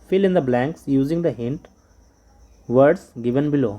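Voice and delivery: slow, careful reading of instructions; slow read-aloud. Shown as a demonstration. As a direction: read each word out for the class. Teacher reads English instructions slowly.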